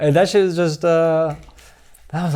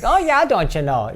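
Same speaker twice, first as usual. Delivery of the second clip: hammed-up Minnesota lilt, pitched up; Minnesota accent; 5 semitones higher than usual. Comic mimicking the accent his friend finds attractive, Minnesota accent. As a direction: play a folksy Minnesota accent. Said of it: "the Minnesota accent".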